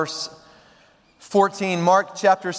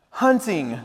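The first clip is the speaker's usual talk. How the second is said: Winnie the Pooh. Acted. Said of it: "said Pooh".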